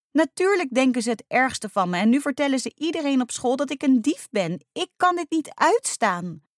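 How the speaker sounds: high, loud, upset outburst; nearly crying. A narrator's reading. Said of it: "Weer begon ze bijna te huilen". (overstuur, bijna in tranen)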